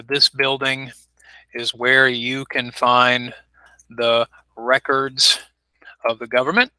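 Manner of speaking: 「records」の頭を強く、とてもゆっくり; very slow teaching read, stressing REcords; slow example sentence. Shown as a demonstration. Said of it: "we would emphasize the beginning of the word".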